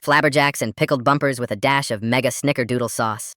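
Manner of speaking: mock-solemn announcement at normal pitch; dead serious. Kid at parents' dinner party, mock dead-serious announcement. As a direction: say the nonsense like grave news. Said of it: "in my best dead serious voice".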